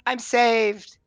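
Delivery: high, loud cry of relief; Banjo. Acted. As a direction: exclaim it like a rescued man. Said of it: "Banjo's like".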